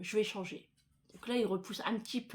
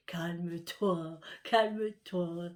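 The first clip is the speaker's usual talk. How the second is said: soothing husband; 2 semitones lower, 3 dB louder, much slower than usual. Retold or imitated. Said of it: "il me dit".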